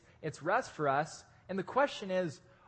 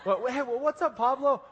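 high, loud greeting breaking into laughter; laughing high call; 7 semitones higher, 6 dB louder than usual. Retold or imitated. The friend greeting Pablo, high, loud and laughing.

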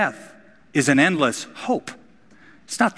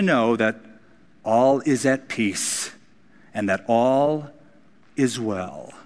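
tender grief; slower than usual. Retold or imitated. Luther at daughter's funeral.

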